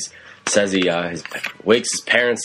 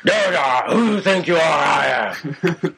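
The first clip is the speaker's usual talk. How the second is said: mock indignant voice; 8 semitones higher, slower than usual. Mock exchange, put-on voice.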